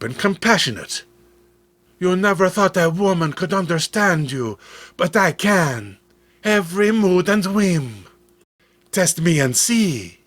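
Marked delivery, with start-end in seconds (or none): 2.0-10.2 lightly raised, clear woman's voice; a hint of a living statue, gentle and clear; clear flute-like voice. Living statue reassures Eric, lightly raised clear voice. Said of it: "Her voice was clear as a silver flute".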